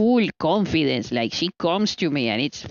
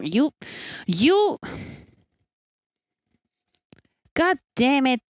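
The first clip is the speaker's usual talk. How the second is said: high mock exasperation; 10 semitones higher than usual. Exasperated at pet.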